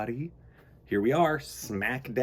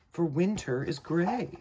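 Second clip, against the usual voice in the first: simple answer; 7 semitones higher, slower than usual. Acted. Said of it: "answered Frederick simply".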